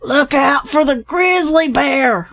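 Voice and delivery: high, slow, drawn-out roar; roared warning. A narrator's reading. Captain warns his advancing friends, roaring. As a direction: roar a warning across a distance. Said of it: "roared the captain".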